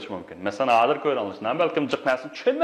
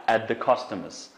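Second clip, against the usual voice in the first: slow model phrase; slower than usual. Shown as a demonstration. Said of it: "at the customers bo'lsin".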